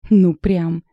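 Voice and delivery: loud sharp snap back; snapping back. Acted. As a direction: snap back at her friend. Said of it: "огрызнулась она". (громко огрызаясь)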